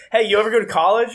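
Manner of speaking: quick, high mocking cop voice; imitating the cop. Cop quizzing the narrator, fast and high. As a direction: rattle it off like a smug cop. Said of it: "Cop goes".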